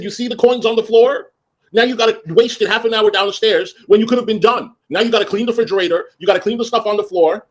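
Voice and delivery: high, nagging list of chores; retold scolding. Boss lists unfinished chores to housekeeper, nagging scolding. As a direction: reel off what he still owes.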